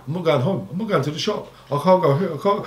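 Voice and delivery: high-pitched whimpering refusal; imitated crying. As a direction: play a tearful kid who won't go. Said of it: "Yeah, I cried".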